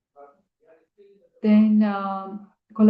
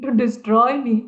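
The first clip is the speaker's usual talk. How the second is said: laughing plea; 3 semitones higher, 4 dB louder than usual. Retold or imitated. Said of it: "He became full of anxiety".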